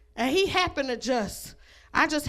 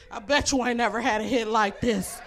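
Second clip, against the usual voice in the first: mumbled, lower quote of the man; quoted boast; 4 semitones lower than usual. Retold or imitated. Quoting the tired man to the crowd, low and offhand. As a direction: say it low, half to yourself. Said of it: "He gonna be like".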